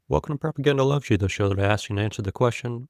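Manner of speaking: high, fast showman announcer; mock announcer intro. Shown as a demonstration. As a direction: hype it like a radio host. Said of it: "Something like".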